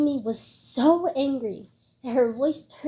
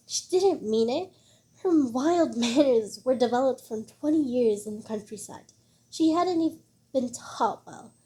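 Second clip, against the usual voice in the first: angry scolding; 3 dB louder than usual. Acted. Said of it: "Zhao Shumi scolded angrily".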